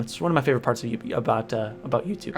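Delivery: stumbling over words, too much caffeine; stuttering. Real, not acted. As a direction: trip over the words, jittery. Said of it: "I'm stuttering and everything".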